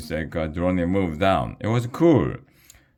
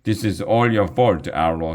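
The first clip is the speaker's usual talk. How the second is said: mild yell; 2 semitones higher than usual. Acted. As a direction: blame Arlo to his face. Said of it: "she yelled".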